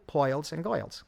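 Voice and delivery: put-on poils and goils with an old New York oi vowel. Director recalling old New York girls' pearls, New York oi vowel. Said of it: "it begins to sound like a New York East Side".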